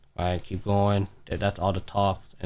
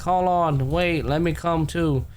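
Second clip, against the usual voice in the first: higher, drawn-out plea to join; a hint of a queen calling after them; lightly voiced queen; 5 semitones higher, slower than usual. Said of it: "you hear the queen voice".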